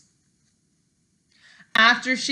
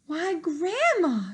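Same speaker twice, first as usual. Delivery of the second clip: put-on little girl; 7 semitones higher, slower than usual. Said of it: "she said".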